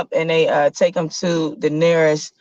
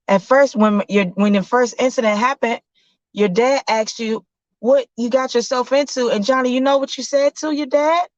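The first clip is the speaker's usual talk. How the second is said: mom voice; 6 semitones higher than usual. Acted. Mother questioning son.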